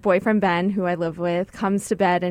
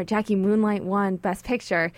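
soft retelling of a murmur in the ear; hushed voice, lightly imitating a gentle wake-up; imitated whisper; 6 dB quieter than usual. Boyfriend waking his sleeping girlfriend with news, imitated soft whisper. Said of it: "he kinda whispers in my ear".

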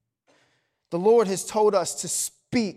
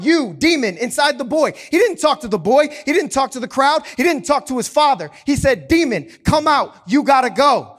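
commanding; 3 semitones higher, 5 dB louder than usual. Acted. Jesus commanding the demon.

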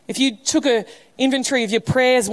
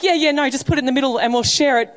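mock Australian diner; 3 semitones higher, faster than usual. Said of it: "mocking the way that Australians came".

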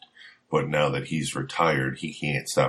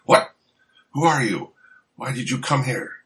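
high, loud mock demand; acted confrontation; 9 semitones higher, 5 dB louder than usual. Co-host voicing a fighter questioning Danny, hammed-up demand. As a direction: fire the questions like a comic-book heavy. Acting out the comic panel's confrontation.

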